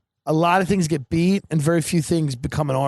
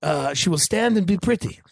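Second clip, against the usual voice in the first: lightly lisping chef impression; Jacques Pepin with a lisp. TV chef assigns his daughter a role, light mock lisp. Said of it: "He has the lisp, right?".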